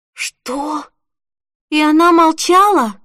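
sudden high, loud burst of surprise; the news hits her, she can't believe it; shocked disbelief. Acted. Holly hears her best friend is pregnant and gasps in shocked disbelief.

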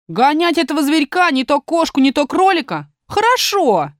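lively high voice for a dog; storybook dingo answering. Acted. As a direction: pitch it up as the dingo taking orders. Dingo answers the god eagerly.

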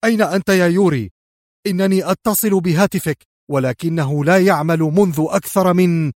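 agitated demand running into an explanation; agitated exclamation. A narrator's reading. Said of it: "هتف في عصبية".

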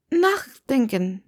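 "nachdenken" stretched slowly, syllable by syllable; slow, pointed "nachdenken"; drawn-out last word. Acted. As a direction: drag "nachdenken" out as a hint. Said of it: "Das letzte Wort zog sie in die Länge".

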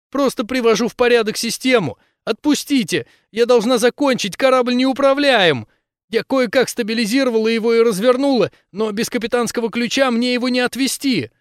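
high, loud, urgent; high desperate plea to finish her work; desperate pleading. Acted. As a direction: beg to be let go. Captive begging to be released.

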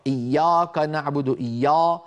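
"إيا" with a dark, rounded, heavy aa; wrongly heavy alif. Shown as a demonstration. Teacher shows what Arabs don't say, heavy alif. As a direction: thicken the long aa in "إيا" as the mistake. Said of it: "لا تقول العرب إيا".

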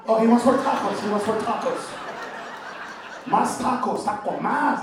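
a hint of Mexican accent on más tacos. Comic showing Tacoma in a Mexican accent, lightly. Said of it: "with a Mexican accent".

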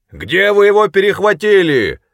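high, loud call through cupped hands; shouting across water. A narrator's reading. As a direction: shout it to the boat far off. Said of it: "прокричал Коллинз, сложив ладони рупором".

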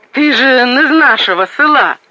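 high frightened outburst; teeth chattering fear. A narrator's reading. Frightened woman cries out to the soldier. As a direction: panicky village woman, near a shriek. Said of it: "У неё застучали зубы".

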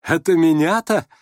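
slow down on the insult, amused; scornful merriment. A narrator's reading. Nastasya Filippovna parrying an insult, scornful gaiety. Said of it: "с пренебрежительной весёлостью отпарировала".

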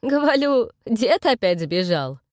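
put-on loud, slow old granny voice; old crone complaining. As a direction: shout it like a deaf grandma. Heroine plays deaf old crone. (старушечий громкий голос, медленно)

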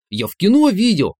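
high, loud know-it-all explaining; condescending. Acted. Inner voice explains its movie knowledge, condescending. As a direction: talk down to him, proud of it. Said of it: "снисходительно объяснил голос".

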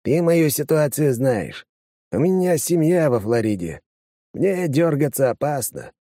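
lightly voiced anxious deputy; worried deputy voice. Говорящий объясняет. (встревоженный чиновник)

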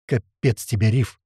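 ordinary delivery, nothing marked

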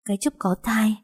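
ordinary delivery

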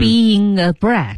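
BEING A linked slowly as bee-ying-nga before "brat"; linked key phrase. Shown as a demonstration. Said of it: "重点在这里". (慢读 being a brat，突出连读)

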